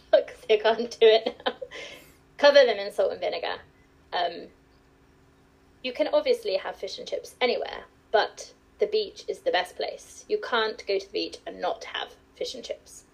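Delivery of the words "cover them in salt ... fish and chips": careful, formal posh English; posh telephone voice. Shown as a demonstration. Guest shows the host her telephone voice, mildly posh and formal. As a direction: put on a professional phone manner, lightly. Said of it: "my formal English".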